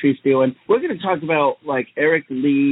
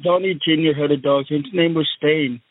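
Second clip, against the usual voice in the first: Donald Trump impression. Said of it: "and I'm the Donnie Trump".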